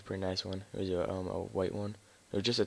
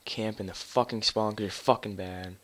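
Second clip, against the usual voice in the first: raging gamer; slower than usual. Real, not acted. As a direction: lash out at the campers. Ranting at campers in game.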